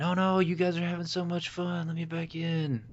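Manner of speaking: imitating whining Mac. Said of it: "Then he's like".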